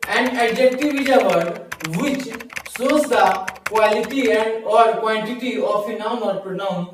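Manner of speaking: slow, loud definition read; slow definition dictation. Shown as a demonstration. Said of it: "adjective".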